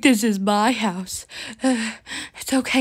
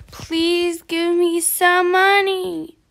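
drawn-out begging; 4 semitones higher, slower than usual. Pretend. Beggar pleading for money.

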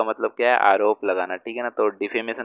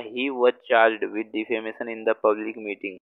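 each word spaced out for writing; slow dictation; much slower than usual. Shown as a demonstration. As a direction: read it slowly so students can copy. Teacher dictates example sentence. (धीमे-धीमे बोलकर लिखवाना)

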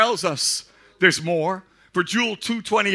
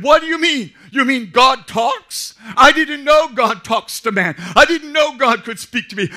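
high, loud wonder; astonished boy; 5 semitones higher, 7 dB louder than usual. Acted. Young Samuel to Eli, amazed excitement. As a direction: burst out amazed that God talks.

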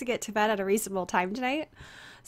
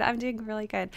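lower register; 3 semitones lower than usual. Shown as a demonstration. Streamer with a sore voice answering chat, lower register. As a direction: settle into a lower, easier voice. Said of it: "I have to talk in, like, a lower register today".

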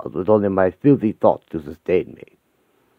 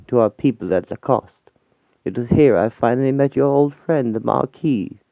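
lightly voiced elegant elderly lady, a touch higher; gracious aristocrat writing to a friend; refined old lady; 4 semitones higher than usual. Lady Manning writing to her dear friend, lightly voiced elegant lady.

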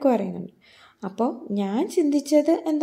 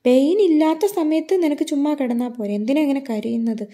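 angry scolding. Retold or imitated. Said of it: "ദേഷ്യത്തിൽ പറയാണ്".

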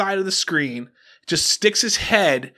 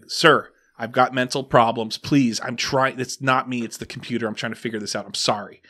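pleading night clerk; 5 semitones lower than usual. Retold or imitated. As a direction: play the worn-out clerk begging for patience. Hotel worker pleading with guest.

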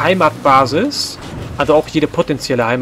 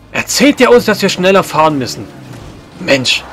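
sarcastic. Real, not acted. Mocking NPC advice.

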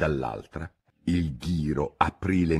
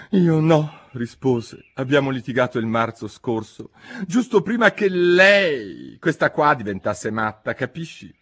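high, loud Hatter voice; animated Mad Hatter; 6 semitones higher, 5 dB louder than usual. A narrator's reading. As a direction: tell it as an agitated Hatter, pitched high.

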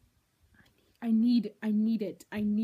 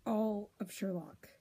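whisper; 2 semitones lower, 7 dB quieter, slower than usual. Real, not acted. Awed whisper about Sherlock.

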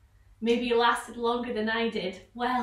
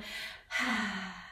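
soft breathy gulp; gulping noise; 5 semitones lower, 7 dB quieter than usual. Shown as a demonstration. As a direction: gulp down the fly. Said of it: "We'll make a big gulping noise".

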